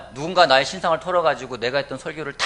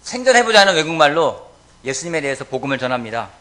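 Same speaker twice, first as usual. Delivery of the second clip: loud, raised-pitch pulpit delivery; forceful preaching; 6 semitones higher, 13 dB louder than usual. Real, not acted. Preacher telling the congregation of Pentecost, forceful preaching. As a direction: preach it out with full projection.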